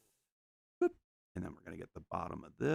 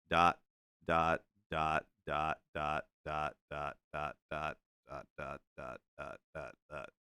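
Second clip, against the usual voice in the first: dot sound effects; 7 semitones lower than usual. Acted. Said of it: "we're gonna need this to be, like".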